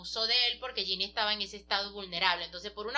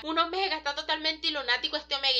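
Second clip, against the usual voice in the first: mild mock yell, pitched up; higher-pitched, half-hearted shout; retold yelling; 4 semitones higher than usual. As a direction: imitate a man crying out, without full volume. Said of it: "empieza a gritar".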